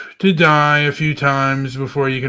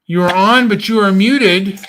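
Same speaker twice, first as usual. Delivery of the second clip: talking while chewing gum; words around a wad of gum. Real, not acted. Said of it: "I'm chewing gum right now".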